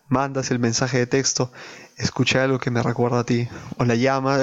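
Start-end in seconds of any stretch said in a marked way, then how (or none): 2.0-3.5 put-on slurring drunk text message. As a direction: drunk and a bit too fast. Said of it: "Me sale bien la voz de borracho".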